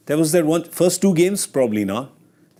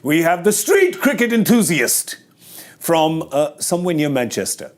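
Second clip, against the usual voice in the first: ring announcer; 4 semitones higher than usual. Pretend. Mock boxing introduction of a guest.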